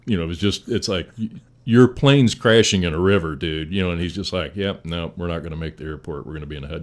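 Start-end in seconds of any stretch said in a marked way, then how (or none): 4.6-6.8 unbothered pilot, even and cool; calm radio report despite the crash; dead calm. Retold or imitated. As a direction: say it like nothing's wrong. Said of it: "Just as calm and, as can be".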